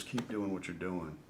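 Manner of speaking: softly retold encouragement; quiet reassurance. Pitcher retelling a legend's encouragement, quiet reassurance.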